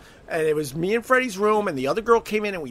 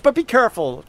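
casual; 5 semitones higher, 4 dB louder than usual. Retold or imitated.

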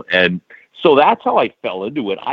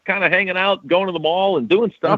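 put-on reluctant kid voice; 9 semitones higher, faster than usual. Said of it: "And I was like".

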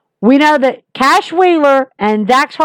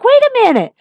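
much higher, crying no, you can't; a fan begging Jericho not to leave, high pitched protest; mock frantic protest; 13 semitones higher, slower than usual. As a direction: plead in disbelief, high and strained. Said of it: "I'm like".

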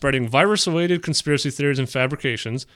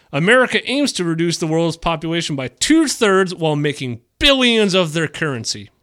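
higher, theatrical reading with stretched key words; dramatic quote reading; 3 semitones higher than usual. Acted. Host quoting a conspiracy article to co-hosts, dramatic reading. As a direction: read it out as overblown propaganda, pitched up.

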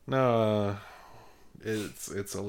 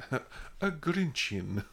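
mock Italian; 5 semitones higher, much slower than usual. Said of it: "it sounds Italian".

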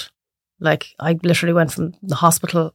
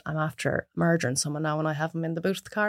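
mock confession; 4 semitones lower, 11 dB quieter than usual. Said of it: "if you rocked up to me and said".

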